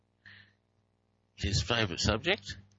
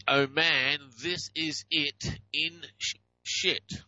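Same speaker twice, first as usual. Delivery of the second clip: slow quoted phrase; 3 semitones higher, slower than usual. Retold or imitated. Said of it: "This one says".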